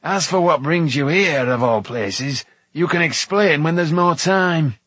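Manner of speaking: loud, impatient dwarf voice; testy, emphatic order; snapping. A narrator's reading. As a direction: brush questions aside crossly. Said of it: "snapped Dolly".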